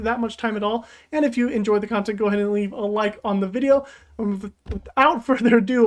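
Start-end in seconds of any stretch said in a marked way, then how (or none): 4.2-5.9 tripping over the words; stuttering. Real, not acted. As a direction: stumble and restart the word. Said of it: "I'm stuttering here".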